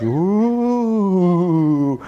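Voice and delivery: long, wavering ghostly howl; drawn-out mock-scary wail; spooky ooh. Preacher mimics the enemy scaring believers, spooky ooh.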